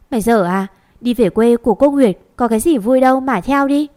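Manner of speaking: loud scolding of a silly younger sister. Acted. Châu scolds her younger sister for wanting to go, loud and sharp. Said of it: "Châu nghe em gái nói vậy bèn mắng".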